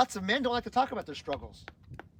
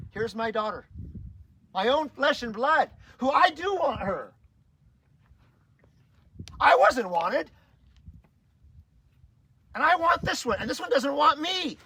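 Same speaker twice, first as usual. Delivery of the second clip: crying out the pain of not being wanted; real crying; 8 semitones higher, 8 dB louder than usual. Real, not acted. Father telling the men about his daughter, breaking down crying. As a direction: voice breaking, much higher and louder, slow. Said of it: "And I start crying".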